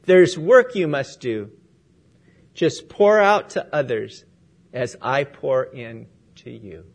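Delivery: gentle master giving a task; tender charge to the mended vessel; kindly. Acted. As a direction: speak it kindly, easing off at the end. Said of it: "spoke to it kindly".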